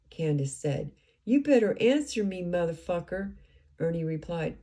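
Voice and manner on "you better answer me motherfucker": angry demand. Retold or imitated. Retold hostile phone call.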